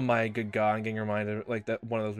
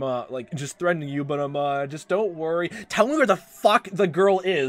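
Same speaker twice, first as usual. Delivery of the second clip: lightly voiced pushy cop, louder and higher; mock threatening cop; 4 semitones higher, 5 dB louder than usual. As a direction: play a fake-friendly cop turning menacing. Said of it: "and just starts, like, shaking him".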